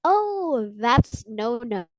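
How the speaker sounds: slow, drawn-out English pronunciation; English accent, words stretched out; English reading. Shown as a demonstration. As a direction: say it as plain English THAT'S NO NO. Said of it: "dalam bahasa Inggris kan kita bacanya gitu".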